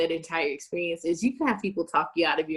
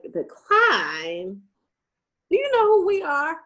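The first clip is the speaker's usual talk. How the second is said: louder, offended outburst; mock indignant shout; 9 semitones higher, 5 dB louder, slower than usual. The firm reacting to the decline, mock indignant. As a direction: act shocked and offended. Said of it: "and they were like".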